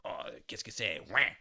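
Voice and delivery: put-on lightly done Quebec French accent; teasing Quebec French imitation; mock Quebec accent. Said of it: "speaking with a Canadian accent".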